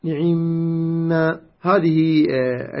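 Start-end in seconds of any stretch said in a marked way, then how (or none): 0.0-1.1 نعم drawn out as ni'imma with a held nasal m; ni'imma pronunciation. Shown as a demonstration. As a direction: say نعم slowly as ni-'imma, doubling and holding the m. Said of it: "كيف ننطق".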